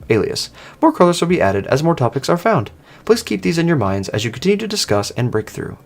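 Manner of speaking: lightly voiced announcing AI; system voice. A program briefing the players, lightly voiced. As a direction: read it out like a helpful program. Reads the Alias system message.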